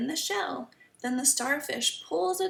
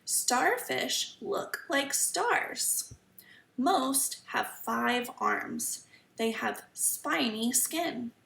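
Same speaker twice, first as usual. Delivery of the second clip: slow, careful storybook reading; reading to children; much slower than usual. Acted. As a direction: read each sentence slowly for kids. Reading the book aloud.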